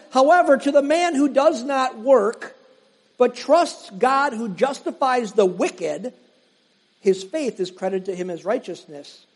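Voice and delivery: preacher reading scripture aloud. Acted. Reads Romans aloud.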